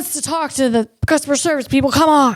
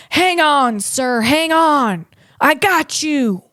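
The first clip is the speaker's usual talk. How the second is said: caring human agent; 2 semitones higher than usual. Retold or imitated. Imagined caring agent reassuring the dizzy passenger. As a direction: reassure the trapped caller like you mean it. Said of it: "That would be the proper human response".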